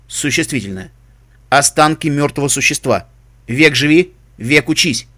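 mechanical dictionary readout; metallic voice. Acted. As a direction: recite like a talking encyclopedia. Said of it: "ответил металлический голос". (металлический голос)

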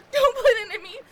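tearful begging; crying pleas. Acted. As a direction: sob and beg.

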